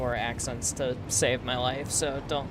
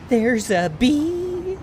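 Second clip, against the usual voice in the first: meme shout; 10 semitones higher, 9 dB louder, much slower than usual. Pretend. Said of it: "It's a reference".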